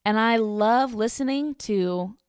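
a hint of a gushing fan, slowing at the end; light impression of an eager listener; mock gushing caller. Vlogger imitating Cheryl praising the station, lightly voiced. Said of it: "And she's like".

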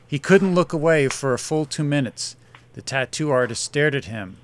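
measured storytelling read; story narration. A narrator's reading. Writer reads a short story to listeners, narrating. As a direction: read the story aloud with drive.

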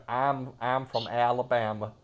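put-on the Southern accent again at normal volume. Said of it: "Oh, sorry".

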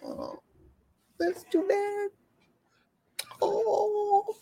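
soft, hushed pitying croon; hammed-up pitying hush; mock pity. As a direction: coo over them with fake pity. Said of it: "different than".

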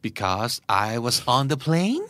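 ordinary delivery

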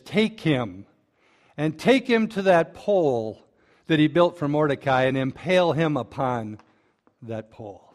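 a king's furious sentence, fading at the end; angry king. Retold or imitated. King sentencing Haman, angry order that drops away at the end. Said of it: "the king gets really angry".

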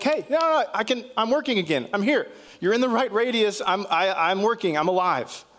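high-pitched, eager talking headphones. Pretend. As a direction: pipe up as revived headphones, pitched well above normal. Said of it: "the headphones were like".

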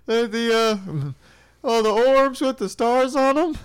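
high, squeaky sidekick voice; Krillin voice. Acted. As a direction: pitch way up as eager little buddy. Krillin voice asking Goku.

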